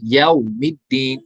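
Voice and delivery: यौमिद्दीन read slowly and softly on the यौ; soft recitation. Shown as a demonstration. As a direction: ease gently through यौमिद्दीन. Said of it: "नरमी के साथ".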